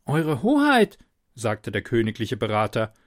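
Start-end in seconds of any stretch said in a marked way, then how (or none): 0.0-1.0 cautious royal adviser. A narrator's reading. Adviser voiced by narrator.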